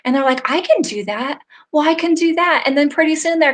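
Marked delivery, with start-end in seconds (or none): 0.5-1.4 higher, trying the idea out; a client just discovering she could; tentative realization. Retold or imitated. Clients gaining confidence, retold. 1.7-2.6 the client now fully convinced; excited confidence. Retold or imitated. Client now certain she can do it, excited.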